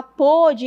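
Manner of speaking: PÔDE with a closed ô; past-tense closed O. Shown as a demonstration. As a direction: round the first vowel of "pôde". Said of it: "no passado".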